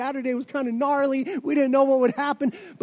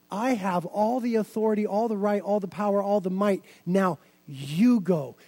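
Jesus insisting; 3 semitones lower than usual. Pretend. The Lord answers the protesting disciples, low and slowing. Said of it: "The Lord said".

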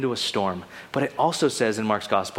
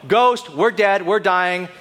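mock panic; 4 semitones higher, 4 dB louder, slower than usual. Acting out disciples' panic at sea.

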